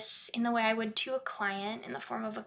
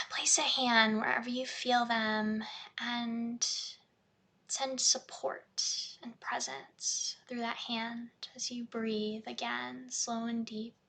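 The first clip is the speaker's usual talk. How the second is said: guided meditation. Shown as a demonstration. Therapist guiding a client to breathe and feel, guided meditation.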